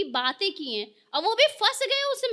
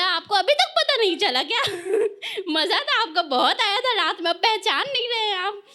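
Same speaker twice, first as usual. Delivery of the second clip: teasing laugh; 3 dB louder than usual. Retold or imitated. Teasing the teacher about chat.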